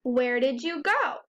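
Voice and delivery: "Where did you go?" lifted on "go"; question rise. Shown as a demonstration. Teacher showing how questions sound, "go" going up. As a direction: let the pitch climb on "go" to ask it. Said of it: "your voice goes up at the end".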